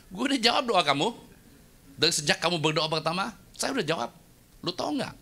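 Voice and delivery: high, lightly voiced teasing God; God scolding the stubborn believer; mock voice of God. God answering the complainer in a high, teasing voice. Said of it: "Tuhan bilang".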